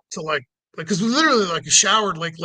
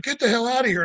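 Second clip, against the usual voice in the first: higher-pitched mock order; retold irate cop; 5 semitones higher, faster than usual. Cop ordering driver away, mock irate. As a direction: imitate an irate dismissal.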